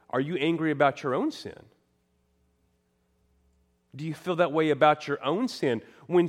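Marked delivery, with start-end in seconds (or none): none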